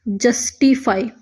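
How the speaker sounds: जस्टिफाई said slowly, syllable by syllable; slow demo word. Shown as a demonstration. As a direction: draw out जस्टिफाई clearly. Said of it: "mid में यहाँ पे देखिए". (जस्टिफाई धीरे-धीरे)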